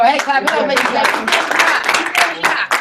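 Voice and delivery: loud rallying call to the crowd; stretched-out hype. Real, not acted. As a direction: keep the crowd fired up. Hyping crowd, calling speaker back.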